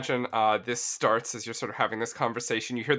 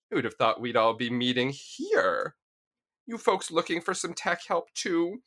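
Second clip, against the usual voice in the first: femme fatale rat. Acted. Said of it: "and says".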